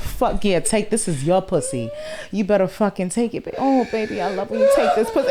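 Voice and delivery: over-the-top playful dirty talk; hammed-up passionate talk. Shown as a demonstration. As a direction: ham up the bedroom talk, laughing into it. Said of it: "a whole nother communication".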